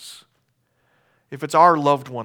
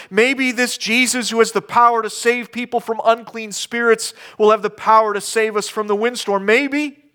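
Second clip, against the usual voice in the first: higher, hesitant pleading; half-doubting call; 8 semitones higher than usual. Retold or imitated. Disciples doubtfully calling on Jesus, hesitant and higher. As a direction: ask without quite believing. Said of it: "a half doubting calling out".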